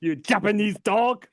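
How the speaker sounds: high put-on cartoon voice; cartoon character voice. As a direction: quote the character. Quoting South Park character.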